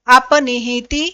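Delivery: अपनिहिति said slowly, each syllable apart. Shown as a demonstration. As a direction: sound out अपनिहिति for students.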